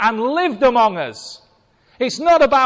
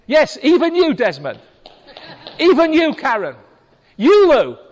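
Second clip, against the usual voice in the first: rousing call-out; 4 semitones higher than usual. Real, not acted. Calling out congregation members by name.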